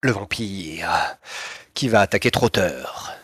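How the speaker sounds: suspenseful scene-setting, slowing and dropping; game master narration. Acted. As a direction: draw out the reveal like a game master.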